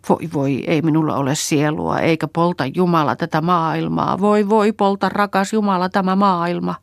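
rising to a high, loud crying wail; wailing lament. A narrator's reading. Kerttu wailing alone in the sauna, sobbing aloud. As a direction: cry out and lament, building to a howl. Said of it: "huutaen itki ja valitti".

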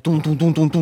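mock stomping beat; rhythmic stomping imitation; stomping footsteps. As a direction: tap out heavy aggressive steps. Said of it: "lähtee kävelemään tosi aggressiivisesti".

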